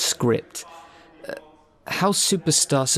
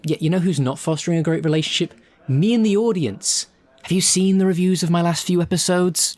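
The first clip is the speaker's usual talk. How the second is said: bitter indignation; 5 semitones higher than usual. Real, not acted. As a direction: needle the director about the bad reviews. Actor's bitter complaint to director.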